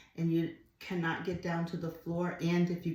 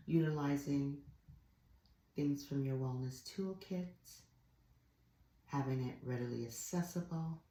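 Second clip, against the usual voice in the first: soft, measured voice with long pauses; guided meditation; 5 dB quieter than usual. Real, not acted. Yoga teacher reflecting with students on stillness and mindset, soft guided meditation. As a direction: talk them gently into stillness.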